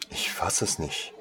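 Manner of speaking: breathy, hushed stammer; stammering disbelief. Acted. Saleswoman still stammering in disbelief at the boy. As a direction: she can barely get the words out. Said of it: "stammelte sie noch immer".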